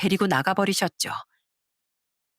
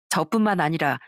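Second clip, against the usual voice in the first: ordinary delivery, nothing marked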